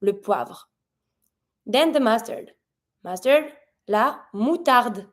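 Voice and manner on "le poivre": "le poivre" ending on the R, silent E; French "le poivre", luh pwavr; stop at R. Shown as a demonstration. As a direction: finish "le poivre" right on a French R. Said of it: "so you stop at the R".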